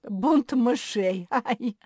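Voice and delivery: pained, drawn-out alarm; groaning. A narrator's reading. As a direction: howl it between yelps. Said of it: "простонал Ричард".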